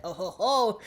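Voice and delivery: laughing taunt; mocking laugh. America laughing back at Wanda, mocking. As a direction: laugh it right back at her.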